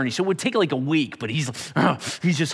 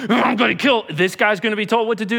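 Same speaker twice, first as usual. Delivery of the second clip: higher, louder, amused disbelief; mock outrage; 6 semitones higher, 4 dB louder, faster than usual. Pastor mocking Saul being told what to do, amused indignation. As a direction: play up the irony with a laugh.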